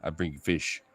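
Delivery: low, soft little dog voice; lightly played simple-minded pet; dog's imagined voice. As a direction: lightly voice the dog offering a gift. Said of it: "She's like".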